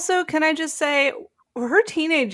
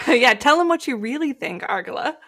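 laughing. Real, not acted. Cheering on her bold letter.

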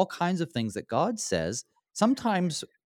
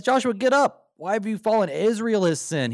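raised, louder voice of God scolding; booming voice of God; 10 semitones higher, 6 dB louder than usual. Retold or imitated. Bible teacher voicing God rebuking Joshua, high and loud. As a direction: call Joshua up as a stern God.

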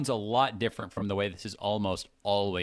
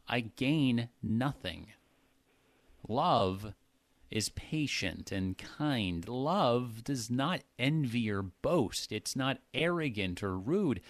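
measured Bible reading; emphatic scripture reading. Shown as a demonstration. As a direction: read the passage with weight on each emphasis. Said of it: "I was trying to emphasize the words".

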